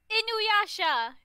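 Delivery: high, drawn-out call down a hallway; playful re-enacted holler; retold yell. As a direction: call out a name, high and loud. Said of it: "I will yell out".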